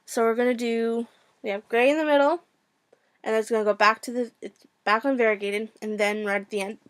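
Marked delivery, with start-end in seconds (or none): 3.2-6.8 hiccups. Real, not acted. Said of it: "I have hiccups".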